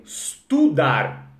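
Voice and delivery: estudar. slowly, opening on E; Brazilian E. Shown as a demonstration. Teacher showing students the Portuguese estudar with its E. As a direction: stretch out the E in estudar. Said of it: "no português mesmo".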